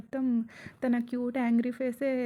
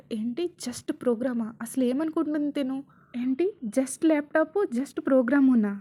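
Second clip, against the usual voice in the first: indignant outburst building louder; rising-volume angry tirade; angry shouting; 6 dB louder than usual. Acted. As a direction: start incredulous, build to loud scolding. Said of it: "అని రిషి అరవగానే".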